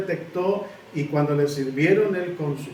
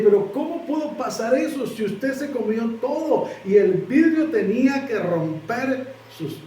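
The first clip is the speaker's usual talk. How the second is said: higher-pitched, mildly hammed-up disbelief; incredulous questioning; 5 semitones higher than usual. Restaurant owner asks how he survived eating glass, incredulous. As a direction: retell her astonished question, pitched up.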